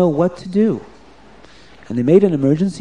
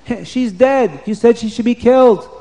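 higher guard voice, blunt; matter-of-fact guard; 7 semitones higher than usual. Acted. Guard tells the king his wife is dead, high and blunt. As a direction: tell him the news plainly.

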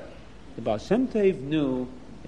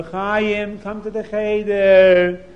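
slow, louder lilting call; sing-song call; 3 semitones higher, 6 dB louder, much slower than usual. Acted. Rebbe calling next door for Chaim, sing-song. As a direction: call the child out kindly.

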